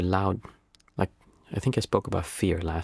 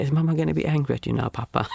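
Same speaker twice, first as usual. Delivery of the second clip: higher, fast, imitating a worried little daughter; little girl; 5 semitones higher, faster than usual. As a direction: ask it like an anxious small girl. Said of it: "my daughter would say".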